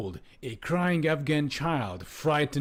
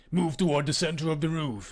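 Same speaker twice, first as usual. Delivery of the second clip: mild acted yell; yelled order; 3 semitones higher than usual. Soldier directs people under fire, restrained yell. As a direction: raise the voice slightly in command. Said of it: "he yelled".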